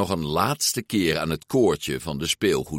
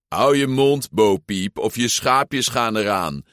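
mock growl; 3 semitones higher than usual. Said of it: "gromde meneer Aardappelhoofd".

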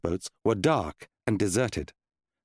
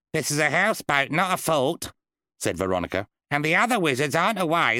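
faster, pointed contradicting; a hint of a cheeky budgie; 5 semitones higher than usual. Budgie Veronica correcting the wizard, lightly voiced and quick. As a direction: poke holes in his excuse.

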